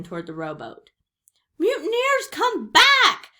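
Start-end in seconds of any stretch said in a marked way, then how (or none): 1.6-3.3 high, loud outraged captain's shout. A narrator's reading. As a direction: yell after deserting crew. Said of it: "shouted Cap'n Bones".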